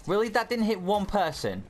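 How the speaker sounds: high disbelieving cry; can't believe it missed; incredulous. Real, not acted. Ability misses everyone.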